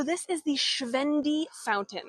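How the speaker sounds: "Schwendi" said the German way; name the fountain with a German accent on "Schwendi". Shown as a demonstration. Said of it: "this is my German accent".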